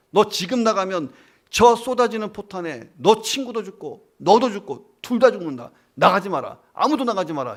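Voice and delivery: loud, urgent order from the trench; commander's shout. Retold or imitated. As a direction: bark the order over the shelling. Commander forbids leaving the trench.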